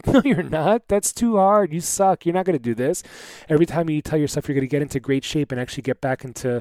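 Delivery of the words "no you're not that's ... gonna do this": little inner voice. Retold or imitated. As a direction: taunt yourself like a nasty little pixie. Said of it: "a little voice in the back of your head that says".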